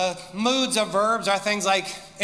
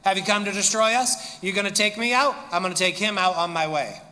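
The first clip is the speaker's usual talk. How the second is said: smack talk; faster than usual. Acted. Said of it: "smack talking back to Jesus".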